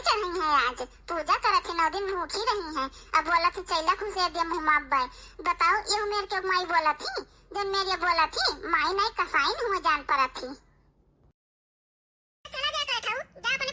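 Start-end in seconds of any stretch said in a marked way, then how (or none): 3.3-10.5 tearful complaint. Acted. Complaining tearfully about mother.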